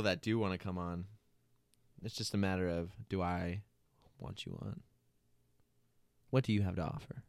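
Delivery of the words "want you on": mock deep. Mock host selection.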